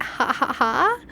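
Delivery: dry spoken ha ha ha; mock haha. Shown as a demonstration. Showing the amused laugh to viewers, mock ha ha. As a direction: say it like a fake laugh. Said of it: "not laughing like".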